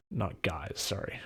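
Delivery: whispered, half to himself; whispered aside. Real, not acted. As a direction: whisper the correction. Jokingly correcting himself aside.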